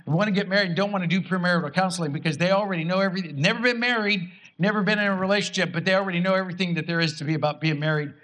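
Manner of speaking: fast, rolling preacher push; preaching. Real, not acted. Pastor preaching at the congregation about premarital counseling, fast. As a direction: pick up speed and drive the point home. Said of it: "I'll go ahead and preach".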